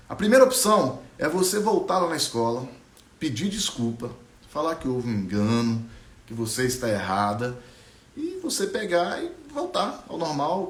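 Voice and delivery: put-on an old shrub calming a scared girl; wise old bush. Old bush advises Ariana.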